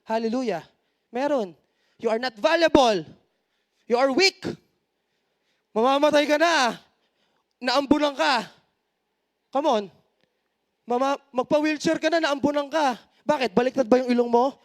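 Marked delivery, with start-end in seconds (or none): 2.0-13.0 taunting devil voice. Acted. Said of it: "Merong ding voice ang devil".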